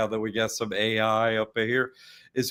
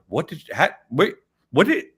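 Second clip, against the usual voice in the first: rising higher and louder in amazement; stunned disbelief; 6 semitones higher, 5 dB louder than usual. Retold or imitated. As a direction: sputter like you can't believe it. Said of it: "And you're like".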